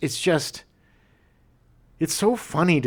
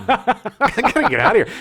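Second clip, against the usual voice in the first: put-on scared kid voice; 11 semitones higher, 5 dB louder than usual. Kid voiced in retold scene.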